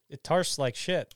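numb tongue slur; slurred numb mouth; numbed throat. Real, not acted. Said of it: "you're tarn?".

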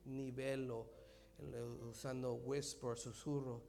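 near-whisper sermon, breathy and soft; hushed whisper preaching. Acted. Preacher showing God's whisper, hushed throughout. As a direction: preach as if telling a secret.

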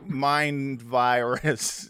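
slow, drawn-out parody of a complainer; mock grumbling. Co-host parodying gripes about woke kids, mock grumbling. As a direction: drag it out in a put-on scolding voice.

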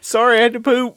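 squeaky high apologetic voice; high-pitched, sheepish and loud; high mock voice. Acted surgeon excuse.

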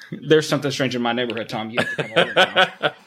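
fast, giggling through the words; laughing. Pretend. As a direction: laugh while rushing the line. Laughing riff on Ghostbusters line.

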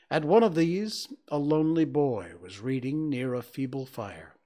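measured, dramatic storybook reading; story narration. A narrator's reading. Reading Scrooge's Christmas story aloud, measured narration. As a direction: read it out with deliberate pauses.

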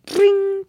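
"Bring" high, the R not properly trilled; failed rolled R. Shown as a demonstration. Host tries copying co-host's "Bring", failed high R roll. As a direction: attempt a trill on the R of "Bring" and miss. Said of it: "I can't roll my R's".

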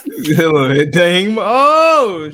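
loud drawn-out wail, climbing high; mock dismay. Mock dismay at mama on picture.

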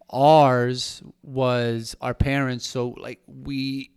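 words through a choke; choking on water. Real, not acted. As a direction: talk while choking on water. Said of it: "I'm still choking from the water".

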